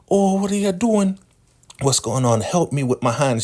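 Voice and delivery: put-on squeaky fussing old woman; very high elder voice. Elder woman fussing about her hand in a squeaky voice.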